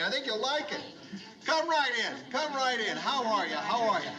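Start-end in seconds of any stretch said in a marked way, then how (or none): 1.5-4.1 overeager welcome. Acted. Lou greeting arrivals eagerly.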